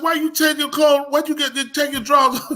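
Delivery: high, loud mock outrage; retold going off. Angry man confronting another changing clothes, mock outrage. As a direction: imitate an indignant man demanding answers. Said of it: "go off on somebody".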